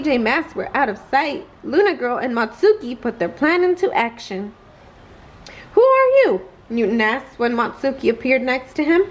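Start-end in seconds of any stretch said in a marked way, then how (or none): 5.7-6.4 much higher, louder startled question. Acted. Newton startled when Matsuki appears beside him, alarmed. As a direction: jumps at a sudden stranger.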